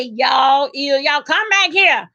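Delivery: down-home country holler; country talk. Acted. Country woman calling family back at a gathering, country talk. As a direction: call them back in a country accent. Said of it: "They know that you say".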